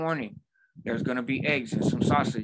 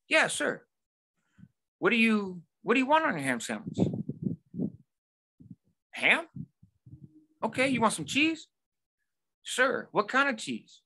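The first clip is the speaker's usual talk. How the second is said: high, squeaky mock teen voice; a nervous high-schooler behind the counter, squeaky and eager; mock teen cashier; 10 semitones higher than usual. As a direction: imitate the acne-faced kid piping up high. Mocking the teen worker's voice.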